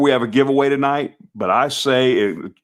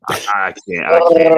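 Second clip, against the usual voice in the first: rough throaty wookiee growl attempt; gargling Chewbacca growl; 4 semitones higher, 4 dB louder than usual. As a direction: try a Chewbacca roar, sounds like gargling. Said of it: "I sound like I'm gargling".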